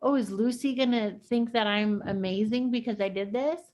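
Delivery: mock a child angling for approval; imitated daughter wondering. Daughter wondering what Lucy will think, imitated anxious hope. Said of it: "was she like".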